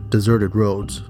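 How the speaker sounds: usual speaking voice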